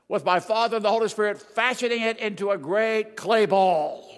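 loud, high proclaiming voice; proclaiming scripture. Acted. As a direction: declare it from the pulpit. Reading Jesus's words in first person.

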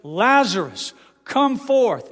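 imitating a commanding cry; restrained preacher's version of a loud command; loud summons. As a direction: call out an authoritative summons, rising in pitch. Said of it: "cried out in a loud voice".

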